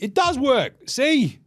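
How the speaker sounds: mock vindication; smug triumph. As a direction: gloat it. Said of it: "it's like".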